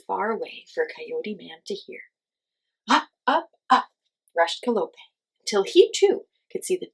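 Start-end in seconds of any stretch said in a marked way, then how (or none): 2.9-3.9 high, loud rising words; rising climb. A narrator's reading. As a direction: climb with each word. Hummingbird climbing.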